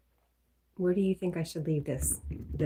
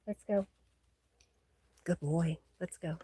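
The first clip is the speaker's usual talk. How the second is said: calling the dog; 4 dB louder than usual. Real, not acted. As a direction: call him over across the yard.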